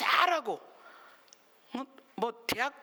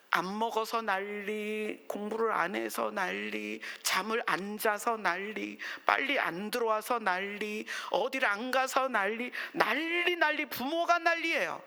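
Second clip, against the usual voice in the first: mock exasperation. Preacher mocking parents who fuss over everything, mock exasperation. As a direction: drag each item, then burst out on the last.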